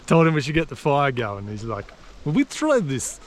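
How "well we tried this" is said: a light mock Russian accent, pitched a little higher; lightly put-on Russian accent, quoting the local bloke. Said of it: "but I'll do Russian voice".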